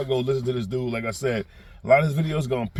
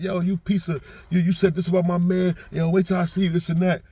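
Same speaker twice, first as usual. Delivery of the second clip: raised, heated cursing out, higher pitched; mock angry cursing out; 6 semitones higher than usual. Upset fan cursing out the commentator, mock angry. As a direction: play an upset fan yelling at him.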